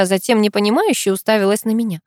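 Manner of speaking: plain reading voice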